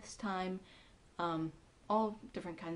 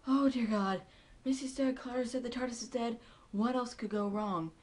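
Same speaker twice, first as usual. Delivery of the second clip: mock despair; 4 semitones higher, 5 dB louder than usual. Doctor despairing, retold.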